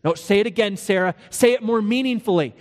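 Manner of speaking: acted, impatient director; coaching correction. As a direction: correct your partner mid-rehearsal. Abram coaching Sarah in rehearsal.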